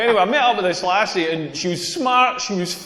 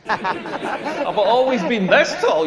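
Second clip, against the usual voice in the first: slow mock-disbelieving repeat; incredulous echo; 2 semitones higher, slower than usual. Comedian answering the stranger's silly question, incredulous. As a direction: throw the question back, drawn out.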